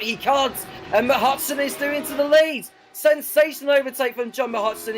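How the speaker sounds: excited. Real, not acted. Lead change in race commentary.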